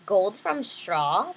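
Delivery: slow greedy gloat; greedy king. Acted. King greedily gloats to the miller, slow and hungry. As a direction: savour the words like a greedy king. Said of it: "the king cried greedily".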